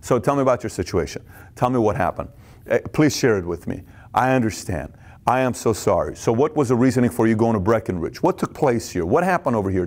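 low, gentle questions; caring rep. Shown as a demonstration. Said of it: "you building a relationship".

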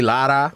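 LARA with a lightly rolled Spanish R. Shown as a demonstration. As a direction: tap the R in LARA. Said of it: "I won't make you roll your R".

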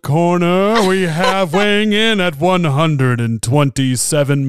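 high, loud, sung-out fight introduction; mock ring announcer. Podcast host mock-introduces the angry woman as a fighter, ring-announcer style. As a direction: announce a boxer to a roaring arena.

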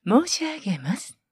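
申し上げます slow and drawn out; stress on 申し上げます. Shown as a demonstration. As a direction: lean on 申し上げます politely. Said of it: "ここ大事です".

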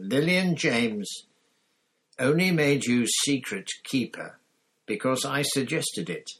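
venomous hiss. A narrator's reading. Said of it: "Black hissed so venomously".

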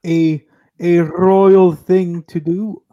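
rolls each R, lordly and grand; rolled r. Acted. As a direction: roll the R's like royalty. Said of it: "I shall roll all of my R's".

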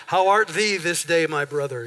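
lightly hammed-up old-fashioned King James English; mock King James English. Pastor mocking churchgoers who switch to King James English. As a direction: poke fun with a mild put-on King James English. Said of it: "talking in King James English".

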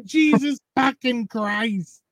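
high, slow startled curse; high, drawn-out shocked swear. Retold or imitated. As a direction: recoil at the sudden near miss. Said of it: "just turn my head and go".

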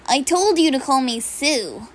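a hint of the frog girl's calm line; Froppy voice. Shown as a demonstration. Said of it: "I'm gonna do Froppy from B N H A".

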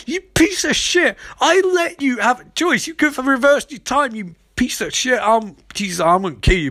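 very high hammed-up rage, gradually dropping; indignant villain, starting at a squeal; mock furious rant. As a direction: rant at your rival in mock outrage.

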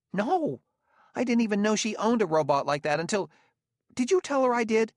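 high-pitched, flustered protest; alarmed denial. A narrator's reading. Gramianus denying he mistreated the robot, alarmed. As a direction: deny it in rising alarm.

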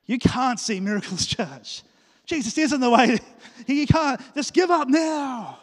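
loud and high, slow ending shout; mock doubt preaching. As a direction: ham up a preacher of despair. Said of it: "imagine if I preached doubt to you".

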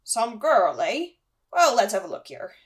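lightly voiced hearty host; a hint of the big friendly gamekeeper; Hagrid. Hagrid about to examine the cat, lightly voiced and curious. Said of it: "melts in Hagrid's arms".

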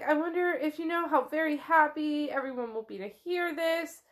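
high-pitched, effusive gladness; suddenly delighted. Acted. Relatives telling her how happy everyone will be, effusive delight. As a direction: gush as if thrilled for everyone. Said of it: "like a bright light snaps on".

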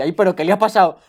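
alarmed caller. Retold or imitated. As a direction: gasp it out like a startled saleswoman. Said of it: "Y dice". (operadora alarmada, imitada más alta y fuerte)

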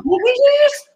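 very high, incredulous retelling; acted bafflement. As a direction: squeak out the confusion. Retold bafflement, repeated.

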